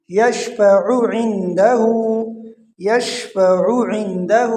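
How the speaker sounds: slow recitation, یشفع not drawn out at the ع; short ain. Shown as a demonstration. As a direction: join short ع of یشفع into عندہ. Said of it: "کھینچ لیتے ہیں زیادہ". (عین کو کھینچے بغیر)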